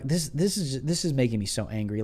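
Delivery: mock-sympathetic, dry; deadpan fake outrage; dryly sarcastic to his wife. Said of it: "I was being sarcastic".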